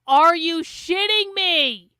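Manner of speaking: slow, stunned whisper. Real, not acted. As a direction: breathe it out in disbelief. Shocked reaction to clip.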